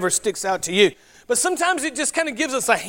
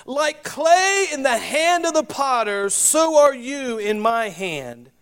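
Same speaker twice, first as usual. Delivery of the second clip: measured, projected Bible reading, often higher than plain talk; Scripture reading; 3 semitones higher than usual. Acted. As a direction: read the passage aloud to a congregation. Reads scripture aloud.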